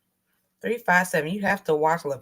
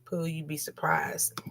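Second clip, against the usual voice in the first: slow, soft whisper; hushed aside; 3 semitones lower, 9 dB quieter, slower than usual. Real, not acted. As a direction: whisper it like a secret. Aside to friend.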